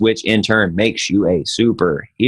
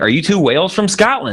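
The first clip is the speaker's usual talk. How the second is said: mock innocent question; 9 semitones higher than usual. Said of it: "I'm like".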